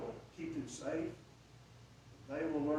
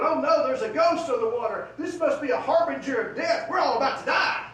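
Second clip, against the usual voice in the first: high, loud panicked wail; panicked disciples; 7 semitones higher, 11 dB louder than usual. Acted. Frightened disciples under the deck, loud panicked voices. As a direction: shout as if death is coming.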